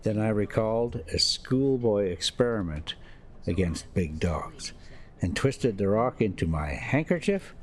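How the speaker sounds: steady, measured audiobook reading; story narration. A narrator's reading. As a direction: read it like an unhurried novel narrator. Resumes reading the novel.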